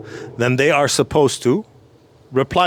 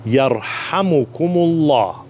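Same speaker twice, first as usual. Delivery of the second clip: Yarhamukumullah drawn out slowly, syllable by syllable; extra slow Yarhamukumullah for beginners; slower still. Shown as a demonstration. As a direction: stretch each syllable of Yarhamukumullah. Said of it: "even slower".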